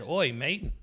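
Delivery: imitating Aussie. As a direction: toss off the "Oi, mate" in a cheeky Aussie twang. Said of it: "She said".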